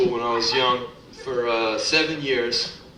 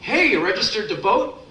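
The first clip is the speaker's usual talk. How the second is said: higher chirpy canvasser pitch; 7 semitones higher, 3 dB louder than usual. Retold or imitated. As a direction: hail a shopper eagerly. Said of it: "the guy comes up".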